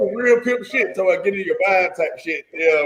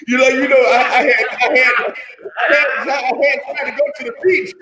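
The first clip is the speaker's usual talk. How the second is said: laughing; 6 semitones higher than usual. Real, not acted. Laughing through his story.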